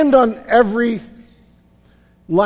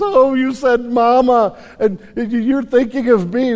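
higher, louder, gushing new mother; delighted mama; 5 semitones higher, 4 dB louder than usual. Retold or imitated. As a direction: gush over the baby like a thrilled mom. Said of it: "mama picks up that baby and says".

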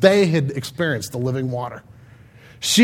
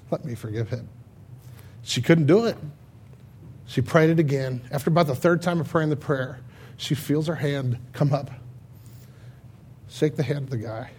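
softly, holding back tears; choked up; 3 semitones lower, 8 dB quieter than usual. Real, not acted. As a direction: voice tight with emotion, barely holding on. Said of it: "I'm choked up about this".

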